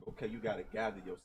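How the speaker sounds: quietly imitating a guiding father; soft, manly voice. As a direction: say it low-key, like a dad setting a standard. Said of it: "he used a soft, manly voice".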